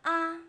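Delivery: "a" short and level; short, even "a"; neutral tone. Shown as a demonstration. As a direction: say "a" briefly, without contour. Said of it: "And neutral tone".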